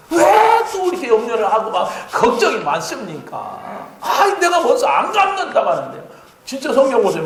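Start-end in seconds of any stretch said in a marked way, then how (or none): 0.1-6.0 high pleading with a laugh; pleading Joseph. Retold or imitated. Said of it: "울면서 그래서". (형들을 달래며 높은 목소리로 하소연)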